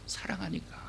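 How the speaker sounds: soft unvoiced whisper; whispered answer. Shown as a demonstration. Preacher revealing God's reason to the congregation in a whisper. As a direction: breathe the word like a secret.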